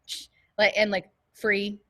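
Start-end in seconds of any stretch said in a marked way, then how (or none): 1.3-1.8 "free" with an F, imitating British "three"; mimicked "free", F in place of th. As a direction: say "free" with an F sound at the front. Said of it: "like, with an F".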